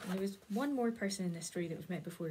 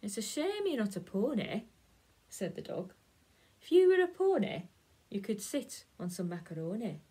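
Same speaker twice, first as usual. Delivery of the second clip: teasing dog; 6 dB louder than usual. Acted. Dog teases the cat about being a pony, lightly voiced. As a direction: tease the cat with a singsong lift.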